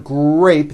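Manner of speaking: "grape" with R outweighing the G; strong R blend. Shown as a demonstration. Teacher says notice the word, "grape" with long dominant R. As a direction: hold the R in "grape". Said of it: "the R sound is stronger".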